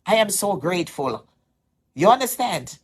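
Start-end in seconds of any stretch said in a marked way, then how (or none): 0.0-1.3 retold excitement. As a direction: replay the gushing thanks when the money came. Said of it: "I was kind of like".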